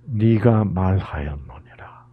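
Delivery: whispered slowly, reverent; hushed whisper. Acted. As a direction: breathe the words like a secret. Jesus quoted in hushed reading. (천천히 속삭이듯)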